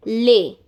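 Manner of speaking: Lé isolated, said as a clear lay; pronunciation demo. Shown as a demonstration. Teacher isolates the final syllable for learners. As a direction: punch the syllable Lé alone. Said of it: "Now this is pronounced as lé".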